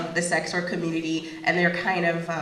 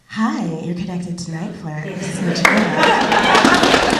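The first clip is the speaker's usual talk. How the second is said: phone sex voice; 9 dB louder than usual. Shown as a demonstration. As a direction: purr it out like a phone sex line. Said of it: "the phone sex voice".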